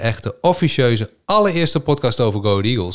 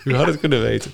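chuckling cheesy quizmaster; laughing host; 6 semitones higher than usual. Pretend. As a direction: tease through laughter.

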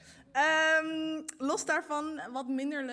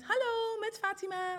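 polite phone voice pitched way up; high work phone voice; 8 semitones higher than usual. Shown as a demonstration. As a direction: answer the phone sweetly and high. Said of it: "Een soort van zes octaven hoger ineens".

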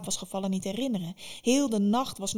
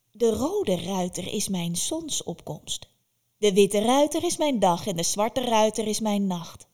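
put-on slow then louder, proud old witch; 5 dB louder than usual. Baba Yaga proudly explains her three riders, gleeful. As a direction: savour it like a gleeful crone.

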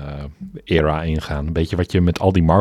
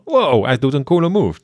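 mildly wowed viewer, pitched up at first; mock amazement; 6 semitones higher, 3 dB louder than usual. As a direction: imitate an impressed fan, lightly. Mock viewer reaction to cool move. (licht gespeelde verbazing)

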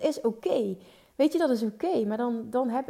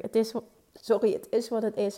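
hikkend, onderbroken door een hik; met de hik. Real, not acted. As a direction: praat door de hik heen. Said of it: "Ik heb de hik". (met de hik)

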